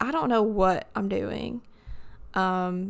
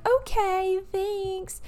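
sarcastic; 11 semitones higher, much slower than usual. Retold or imitated. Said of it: "I was like".

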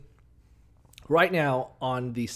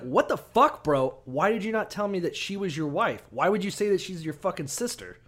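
higher, hammed-up angry question; mock pharaoh outrage; 5 semitones higher than usual. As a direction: play the outraged pharaoh, pitched up. Pharaoh voiced confronting Abraham.

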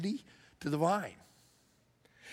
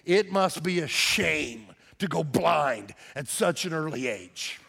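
sarcastic jab; slower than usual. Retold or imitated. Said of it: "and I quote".

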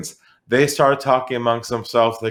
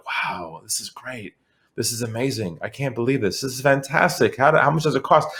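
softer, distant-sounding gasps of delight through a speakerphone; overheard excited chatter; 4 dB quieter than usual. Retold or imitated. Sales rep retelling buyers raving on the call, faint, delighted. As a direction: relay the buyers' wowing as if heard faintly down the line. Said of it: "I started hearing these noises on the phone call".

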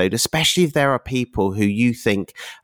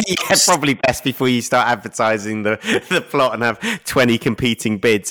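talking through real laughter; amused, let the laugh break into the words; 2 semitones higher than usual. Real, not acted. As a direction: chuckle your way through it. Host joking about competing bids.

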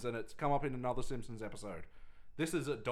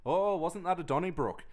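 put-on Apu accent; 6 semitones higher than usual. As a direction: imitate Apu's Indian accent. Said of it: "you would say it like that".

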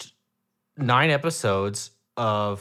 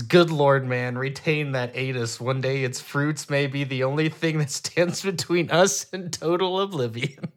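reading a Tick line; 3 semitones higher than usual. Retold or imitated. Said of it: "the tick responds".

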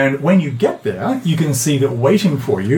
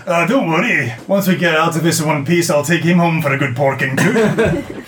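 lightly voiced bawdy dwarf impression; imitating the dwarf; 2 semitones higher than usual. Disguised woman teasing companions as the dwarf, light impression. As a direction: play a disguised friend copying a dwarf. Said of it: "in a perfect imitation of his".

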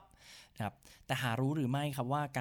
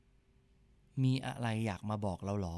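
slow guided phrase; 2 semitones lower, much slower than usual. Shown as a demonstration. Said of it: "ลองพูดตามผมดูครับว่า".

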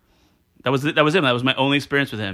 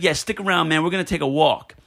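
mock Puerto Rican; 2 semitones higher than usual. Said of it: "he thinks he's Puerto Rican".

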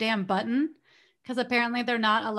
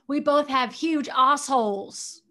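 put-on British accent; 3 semitones higher, 3 dB louder, slower than usual. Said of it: "And she said".

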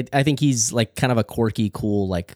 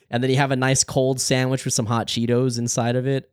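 stoner. Real, not acted. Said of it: "you sounded like a fucking stoner there".

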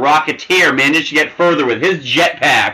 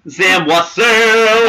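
drawn-out name; 6 semitones higher, much slower than usual. Acted. Calling out the character's name.

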